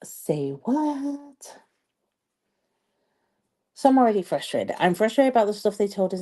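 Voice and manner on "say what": high, startled "Say what?"; shocked disbelief. Retold or imitated. Finding no hot water, a high startled retort. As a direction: act floored by the news. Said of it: "And I'm like".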